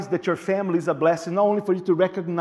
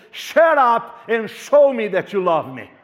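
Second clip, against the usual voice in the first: fed-up wife; 2 semitones higher, 5 dB louder than usual. Retold or imitated. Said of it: "There will be one time that you say".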